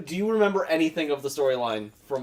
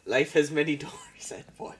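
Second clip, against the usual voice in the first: whisper. Pretend. Mock wise saying, whispered.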